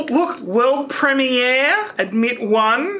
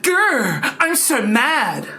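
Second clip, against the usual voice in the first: mock anger; much slower than usual. Shown as a demonstration. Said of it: "Now let me do angry".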